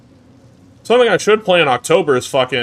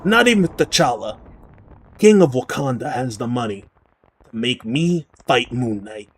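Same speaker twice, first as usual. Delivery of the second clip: Taskmaster voice. Retold or imitated. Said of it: "mimicking Steve Bloom's Taskmaster voice".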